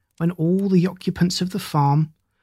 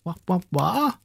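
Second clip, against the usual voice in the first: clucking hens; 3 semitones higher than usual. Acted. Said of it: "clucked the hens".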